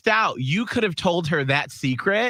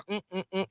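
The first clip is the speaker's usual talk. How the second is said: finger sucking; 9 dB quieter, much faster than usual. Retold or imitated. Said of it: "Oh, that noise".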